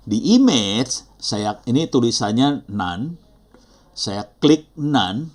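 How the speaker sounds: slow, deliberate instruction, key words stretched; slow step-by-step. Shown as a demonstration. Teacher showing learners where to click, slowly. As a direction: spell out each click unhurriedly. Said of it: "Saya ulang pelan-pelan ya".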